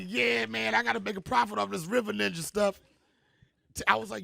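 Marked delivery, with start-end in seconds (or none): 0.0-2.8 excited. Retold or imitated. Excited retelling of his plan.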